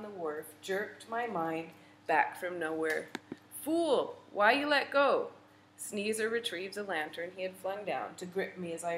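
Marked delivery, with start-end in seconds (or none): 3.6-5.3 loud, high scolding shout; higher and much louder furious yell; angry shout. A narrator's reading. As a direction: bark it in fright and anger. Man shouts as she falls.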